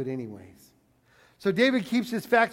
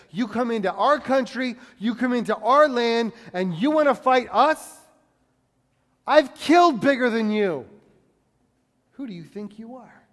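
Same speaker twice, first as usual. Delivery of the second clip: defiant challenge; 3 semitones higher, 5 dB louder than usual. Retold or imitated. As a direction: square up to an intruder on your land. David defying Goliath.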